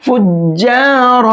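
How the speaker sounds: فجار drawn out very slowly with a heavy, thick r. Shown as a demonstration. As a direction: stretch فجار and give the ر a full, heavy sound. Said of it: "را کو موٹا کر کے پڑھیں گے". (فجار میں را کو موٹا کر کے آہستہ)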